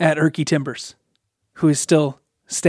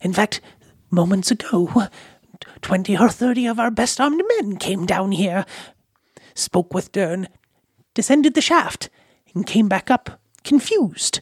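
put-on high-pitched elderly goblin woman voice; 5 semitones higher than usual. The game master voices an elderly goblin lady asking the adventurers for help: elderly goblin lady voice. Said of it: "the elderly goblin shaman-like lady has been stewing in the background. / the elderly goblin shaman-like lady has been stewing in the background. / the elderly goblin shaman-like lady has been stewing".

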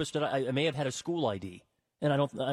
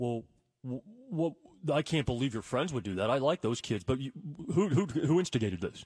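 ordinary talk, nothing marked

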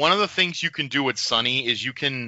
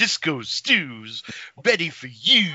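nice and slow, drawn-out delivery. Saying what a wrestler should have said in character: Disco Stew voice. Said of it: "the Disco Stew impression".

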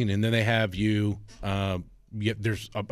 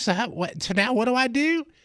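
put-on, elderly old lady voice; 14 semitones higher, 3 dB louder than usual. Describing a man using a voice changer to sound like an old lady, old lady voice. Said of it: "And he just talks like this".

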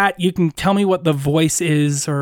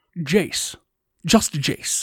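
put-on Scottish-accented voice; 4 dB quieter than usual. Playing a character, the speaker attempts a Sean Connery impression to introduce himself. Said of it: "I'll attempt Sean Connery".

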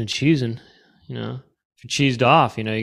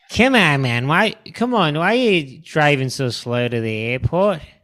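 put-on Australian accent, higher pitch; 4 semitones higher than usual. Acting out passengers of a driver going really slow, australian accent. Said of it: "I can't do an Australian accent".

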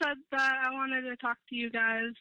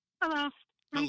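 weepy, tearful crying voice, close to tears; 3 semitones higher than usual. Greeting the hosts on a call-in line: sounding like crying. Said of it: "You sound like you're crying".

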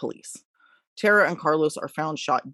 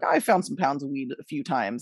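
plain

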